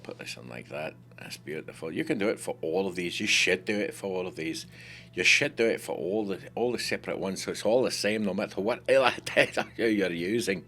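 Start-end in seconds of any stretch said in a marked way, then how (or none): 1.9-10.7 broad, lively Scottish accent. Shown as a demonstration. Tutor urging viewers to do it for all of these, Scottish accent. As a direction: lay on the Scottish voice. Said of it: "That's Scottish, by the way. Pretty good with my Scottish voice".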